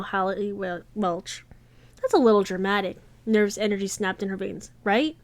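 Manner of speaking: reading a romance novel aloud, evenly paced; audiobook-style read; story narration. A narrator's reading. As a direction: tell the story to listeners, voicing the characters lightly.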